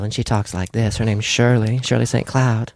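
lightly voiced female disguise character; a hint of an old-movie dame; Shirley Saint Cloud. Shown as a demonstration. Actor introducing a female disguise, lightly put-on lady voice. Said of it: "And then I have a female".

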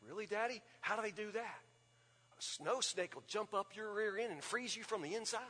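hushed spooky dad. Retold or imitated.

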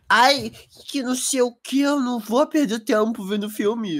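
mock his excuse in a whiny tone; whiny mocking imitation. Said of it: "ele fica tipo".

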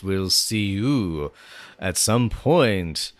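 slow, drawn-out spooky ghoul host; lightly voiced horror host, stretched out slow; Crypt Keeper voice. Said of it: "I need to work on my Crypt Keeper act".

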